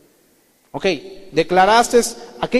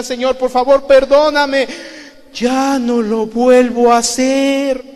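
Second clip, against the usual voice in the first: loud, high, anguished begging for forgiveness; tearful plea; 6 semitones higher, 8 dB louder, slower than usual. Retold or imitated. Recalling his tearful prayer at the altar, loud and anguished. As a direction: cry out to God as if weeping again. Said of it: "y empecé a llorar".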